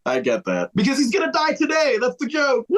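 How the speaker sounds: ordinary talk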